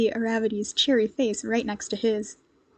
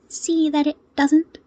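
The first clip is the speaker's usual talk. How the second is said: mock sternness; 5 semitones higher, 4 dB louder, slower than usual. A narrator's reading. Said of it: "with mock sternness".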